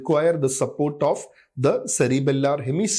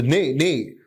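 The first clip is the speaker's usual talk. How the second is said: "nay" punched out each time; staccato stress. Shown as a demonstration. Lecturer showing students the over-stressed syllable, "nay" punched. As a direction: isolate "nay" with explosive stress. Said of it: "undue stress on a certain syllable".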